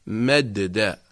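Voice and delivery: "مد داء" broken into its parts, the doubled dal sounded as two; original unmerged form. Shown as a demonstration. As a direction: sound both dals of "مد داء" separately. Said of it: "أصلها". (نطق "مد داء" بفك الإدغام، دالان منفصلتان)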